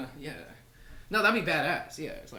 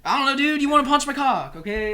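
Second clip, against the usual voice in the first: mock indignant; 8 semitones higher, 8 dB louder than usual. Exaggerated mock accusation to friend.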